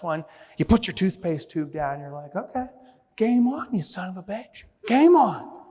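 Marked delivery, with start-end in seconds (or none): 2.3-5.6 mock challenge. Squaring up to the tube.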